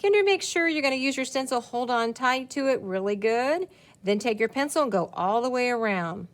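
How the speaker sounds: bright teacher voice for kinders; teacher voiceover. Shown as a demonstration. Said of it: "And you can do a voiceover".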